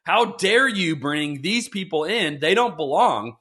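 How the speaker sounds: mock indignation. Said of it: "religious leaders constantly saying".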